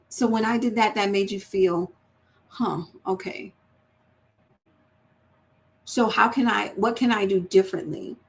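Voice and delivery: gentle, curious questioning; sincerely trying to understand. Shown as a demonstration. Wife to spouse, gentle and understanding. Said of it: "trying to understand one another".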